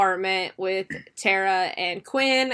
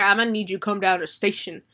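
cop voice; faster than usual. Retold or imitated. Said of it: "that isn't how he sounds".

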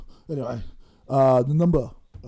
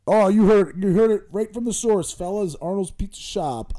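pumped-up ad pitch, louder; hyped promo; 6 semitones higher, 4 dB louder than usual. Acted. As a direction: sell it like a loud promo. Pitching the pizza shop.

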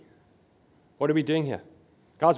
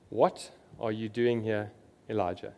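gentle quiet voice; 6 semitones lower, 7 dB quieter than usual. A narrator's reading. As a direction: ask it gently, as God's still small voice. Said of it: "gentle whisper".

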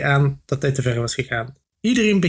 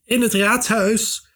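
higher, slow nervous answer; gulping; 8 semitones higher, slower than usual. A narrator's reading. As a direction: swallow hard, then say it. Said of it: "slikte de ander".

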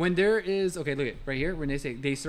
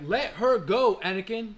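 raised, higher-pitched movie plea; dramatic line reading, pitched up; demonstrated film line; 4 semitones higher, slower than usual. Shown as a demonstration. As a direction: act out how he says it in the scene. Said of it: "I j-, he's like".

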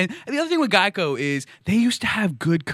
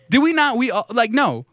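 sputtering, high and louder mock outrage; exasperated; 8 semitones higher, 4 dB louder than usual. Comedian objects to cops in insurance ads, exasperated. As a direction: stumble over yourself in comic exasperation.

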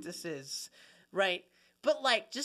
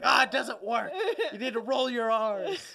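louder, laughing "You need to roll your R's"; a laughing mock lecture; laughing correction; 5 semitones higher, 8 dB louder than usual. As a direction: tease her through laughter. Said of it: "And I'm like".

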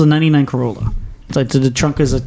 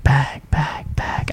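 puzzled muttering; 6 dB quieter, much slower than usual. Retold or imitated. Searching his mind, puzzled thought.

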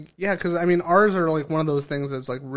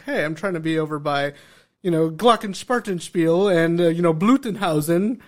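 put-on German accent; 4 dB louder than usual. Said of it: "they were just like".

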